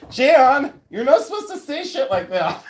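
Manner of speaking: mock scolding. Real, not acted. Streamer chiding a chat viewer, mock stern and loud. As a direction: scold Jan playfully, half laughing.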